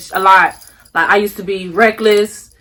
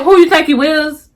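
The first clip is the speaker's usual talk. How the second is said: mock sassy challenge; 5 semitones higher than usual. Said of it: "If a person ever say".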